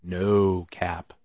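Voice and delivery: quiet, measured threat; lightly voiced spooky board; threatening Ouija board. Ouija board spelling a warning to dad, low-key threat. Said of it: "it would be like".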